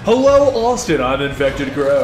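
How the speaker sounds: loud announcer-style greeting; deep radio host hello. Shown as a demonstration. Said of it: "should he take his radio voice?".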